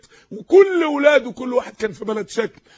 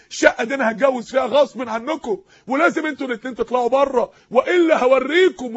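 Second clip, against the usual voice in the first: son's threat; 2 semitones higher, 4 dB louder than usual. Retold or imitated. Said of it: "ويقول".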